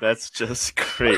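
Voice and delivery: slow, dry, laughing sarcasm; sarcastic. Real, not acted. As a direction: drag it out, amused and sarcastic. Smoke alarm going off mid-recording.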